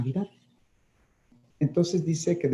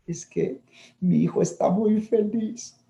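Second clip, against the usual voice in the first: mother's voice; 9 semitones higher than usual. Retold or imitated.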